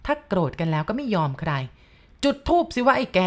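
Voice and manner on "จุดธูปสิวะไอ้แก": high, louder spirit voice barking orders; possessed command. A narrator's reading. Possessed aunt ordering grandpa to light incense, high and loud. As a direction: demand it like a spirit in her body. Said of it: "ป้าจีบพูดอีกทีแล้วก็ชี้มือ".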